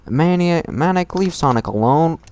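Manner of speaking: loud high yell at a brother. Acted. Sister yelling at her brother across the house, loud and high. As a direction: shout him off Sonic. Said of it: "We heard her yell".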